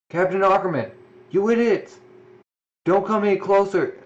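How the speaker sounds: warning shout. Acted. Warning in game scene.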